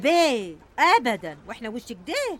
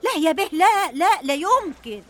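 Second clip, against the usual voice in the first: panicked denial; 5 semitones higher, 5 dB louder than usual. Acted.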